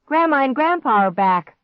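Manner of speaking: high, loud announcement; excited shout. A narrator's reading. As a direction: shout the good news. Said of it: "Clark shouted".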